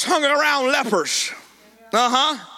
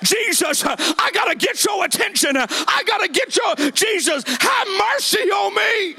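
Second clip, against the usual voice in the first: high, stretched calling out for mercy; preacher acting out an urgent plea; preached desperate cry; 7 semitones higher than usual. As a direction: cry out as the lepers, climbing to a peak. Lepers cry out to Jesus.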